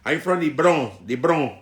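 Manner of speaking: put-on Latino Bronx accent; mock Hispanic Bronx accent. Claiming to be from the Bronx, in a mock Hispanic accent. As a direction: announce yourself in a fake Hispanic Bronx accent.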